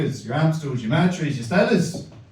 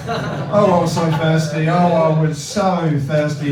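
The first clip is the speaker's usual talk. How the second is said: exaggerated thirst; 2 semitones higher, 6 dB louder, slower than usual. Comic exaggerated thirst lament.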